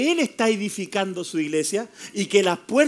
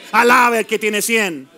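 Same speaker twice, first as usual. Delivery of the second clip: louder repeat; 5 dB louder, slower than usual. Shown as a demonstration. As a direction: repeat Alabe al que tiene cien louder and slower. (repetición más fuerte y lenta)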